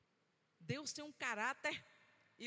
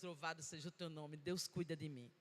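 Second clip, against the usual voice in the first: tearful praise; 8 semitones lower, 5 dB quieter than usual. Retold or imitated. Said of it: "as lágrimas caindo".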